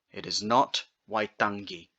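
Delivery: waitangi with a hard g after ng; wrong hard g. Shown as a demonstration. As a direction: repeat the mistake with hard g.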